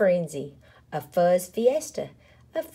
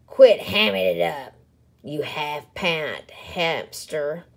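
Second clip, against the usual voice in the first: snarled; 3 dB louder than usual. Acted. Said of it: "snarled Big Bark".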